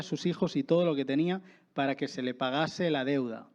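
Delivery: measured reading of the Bible passage; scripture reading. Acted. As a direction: read the verses aloud to the church. Reads the parable aloud. (lectura bíblica pausada ante la iglesia)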